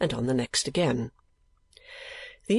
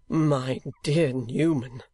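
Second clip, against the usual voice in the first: cried out; much slower than usual. A narrator's reading. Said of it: "cried Nicholas".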